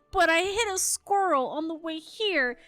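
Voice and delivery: guilty. Retold or imitated. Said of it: "with this guilt-ridden face".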